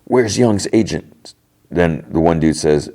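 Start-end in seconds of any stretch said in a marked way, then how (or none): 0.0-1.3 high-pitched retold lockdown orders; mock yell. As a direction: imitate a commander yelling orders without real volume. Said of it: "and he yells".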